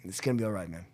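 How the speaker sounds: low, soft and steadying; quiet reassurance. Retold or imitated. Old hippie comforts newcomer at first meeting, quietly reassuring. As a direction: gently reassure a nervous newcomer.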